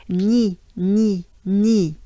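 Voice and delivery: "ni" as "nyee", French gn and long ee; separate, emphatic "ni" through a smile; banana-smile "ni". Shown as a demonstration. Teacher makes it happen for learners, banana-smile "ni". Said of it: "Somehow we make it happen".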